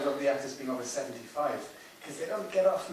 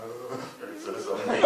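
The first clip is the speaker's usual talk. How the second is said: slower, amused, lightly voiced reading; Richard Briers twist on it; slower than usual. Director imitating Richard Briers' comic reading, slower and amused. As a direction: give the line a sly comic turn, laughing slightly. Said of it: "turning it into something like".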